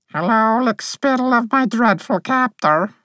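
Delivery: high, even fairy voice with no lift; lightly voiced dreamy fairy, a touch of disdain; dreamy monotone. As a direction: drift through it as if half asleep. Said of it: "in her dreamy monotone".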